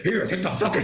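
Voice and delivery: laughing through the retold line; laughing quote. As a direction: let the words spill out amid laughter. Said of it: "He's like".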